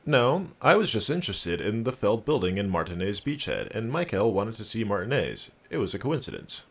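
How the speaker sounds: lilting training-video presenter; Trent Heitlstam. Acted. Trent explaining himself to Harry, presenter voice. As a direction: explain it like an instructional host. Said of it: "I can do that voice".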